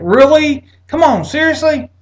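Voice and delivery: high, loud incredulous scoff; sarcastic disbelief. Retold or imitated. To the shocked nurse, loud high sarcastic disbelief. Mocking nurse's late reaction.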